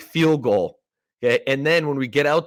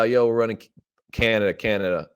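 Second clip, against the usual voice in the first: super casual. Retold or imitated. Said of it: "he always says it, like, super casually".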